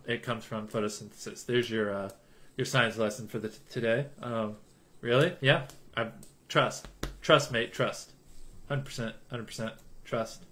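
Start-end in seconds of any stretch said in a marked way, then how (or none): 6.0-10.4 put-on a lightly done British accent, softer; British accent impression. Streamer imitating his British friends in a light British accent. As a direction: toss out British slang in a British accent. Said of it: "what my British friends sound like".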